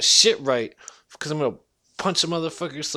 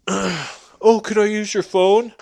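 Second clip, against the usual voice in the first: higher, louder pleading mock voice; mimicking the weirdo; 4 semitones higher, 7 dB louder, slower than usual. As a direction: whine it like a fake victim. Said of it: "the weirdo asks".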